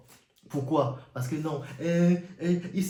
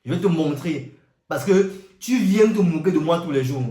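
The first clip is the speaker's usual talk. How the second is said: raised, scolding voice of God; angry God; 2 semitones higher, 6 dB louder than usual. Retold or imitated. God scolding the little brother, louder and angry. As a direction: threaten the mocking brother loudly.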